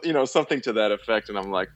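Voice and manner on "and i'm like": usual speaking voice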